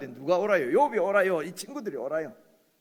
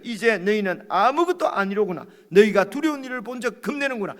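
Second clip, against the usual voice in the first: Job rebuking; 5 semitones higher, 8 dB louder than usual. Acted. Preacher voices Job's rebuke.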